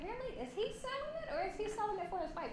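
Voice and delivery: high, soft, fast disbelief; can't quite believe it; quick incredulous question. Retold or imitated. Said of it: "And I'm like".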